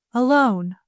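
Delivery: "Alone" set apart with understated weight; quiet emphasis. A narrator's reading. Daughter asking mother for a private word, quietly emphatic on "Alone". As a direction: put gentle, deliberate stress on "Alone". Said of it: "the quiet emphasis on the last word".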